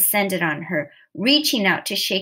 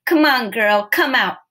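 shouted call; 3 semitones higher, 6 dB louder than usual. A narrator's reading. Someone aboard calls to Trudy in the water, shouting. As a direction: call out to a swimmer from a boat. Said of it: "someone shouted".

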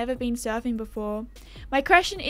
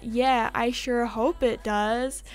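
slow, lightly put-on American accent; attempted American accent, drawn out; slower than usual. Shown as a demonstration. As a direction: quote it slowly in an American accent. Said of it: "that's my American accent".

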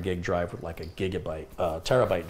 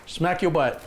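much higher and louder playful pet talk; 9 semitones higher, 5 dB louder, slower than usual. Real, not acted. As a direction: tease the dog with a high burst. Playful with dog.

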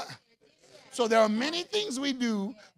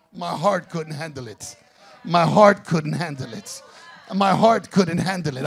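building emphasis; 4 semitones lower, 8 dB louder than usual. Acted. Preacher repeats line building louder.

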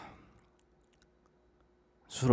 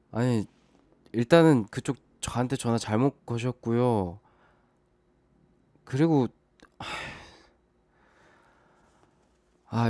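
raised, higher, louder and urgent; urgent alarm; 3 semitones higher, 5 dB louder than usual. Acted. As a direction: call out to stop them. Caller in crisis, urgent calling out.

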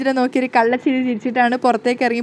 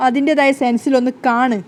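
annoyed; 3 dB louder, slower than usual. Acted. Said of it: "ഗോവിന്ദിന് ദേഷ്യം വരികയാണ്".

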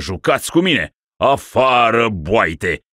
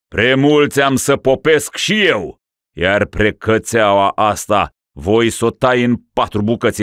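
raging rant; 5 semitones higher, 5 dB louder than usual. Acted. Raving ruler orders slaughter.

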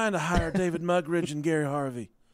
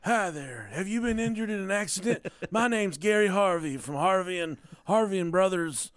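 sleazy lawyer ad; 2 semitones higher than usual. Pretend. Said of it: "That sounds like a good lawyer".

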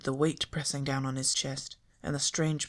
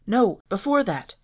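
breathless; 7 semitones higher, 11 dB louder than usual. A narrator's reading. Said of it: "Fred said breathlessly".

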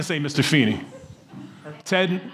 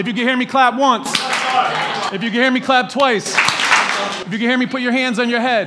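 kindergarten teacher voice; 3 semitones higher than usual. Pretend. Teacher call-and-response with audience.

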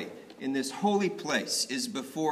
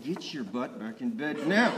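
laughing mock scold. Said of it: "I think Eli was saying".

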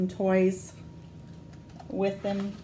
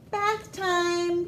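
mild call-out; 9 semitones higher than usual. Acted. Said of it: "calls out the pirate mommy".

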